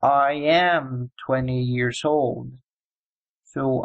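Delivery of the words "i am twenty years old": slow example. Shown as a demonstration. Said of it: "we say".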